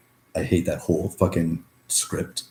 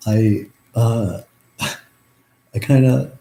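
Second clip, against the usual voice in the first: overcome, a laugh escaping as words stall; really getting emotional, struggling to go on; choked up with emotion; 3 semitones higher, 3 dB louder, much slower than usual. Real, not acted. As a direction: break off into an emotional laugh, drawn out. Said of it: "getting a little emotional".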